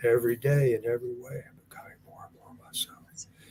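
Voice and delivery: soft, hushed half-whisper. Guiding listeners through an affirmation, repeating it a final time, half-whispered. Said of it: "And then just whisper it".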